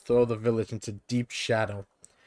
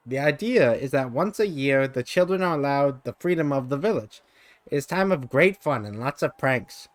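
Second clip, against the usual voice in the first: creature voice; 3 semitones higher than usual. Acted. Jan explains the festival.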